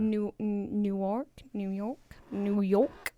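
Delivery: tentative try at New York accent; attempted New York accent. Shown as a demonstration. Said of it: "I can't do a New York accent".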